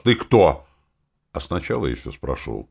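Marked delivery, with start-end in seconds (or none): 0.1-0.7 imitating a yell a bit higher and louder; mock yell. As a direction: replay the friend's sudden shout. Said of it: "а потом ты вдруг как заорёшь". (передразнивая крик)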